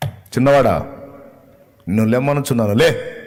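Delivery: loud raising-the-dead command; loud command to rise. Retold or imitated. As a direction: call the dead boy up with authority. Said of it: "అన్నాడు".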